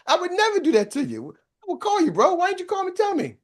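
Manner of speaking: high-pitched imitated plea; mock protest. Friend told they assumed he quit, retold indignant protest. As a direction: act out a friend affronted at being misjudged.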